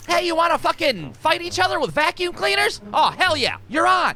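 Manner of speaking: high, eager mock challenge; excited dare. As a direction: egg your buddy on, pumped. Roommates egging each other on.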